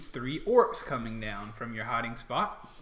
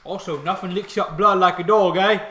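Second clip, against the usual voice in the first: loud, higher orc banter; orc soldier; 6 semitones higher, 14 dB louder than usual. Acted. Orc joking with comrades about dogs, orc voice. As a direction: toss out a joke as an orc grunt.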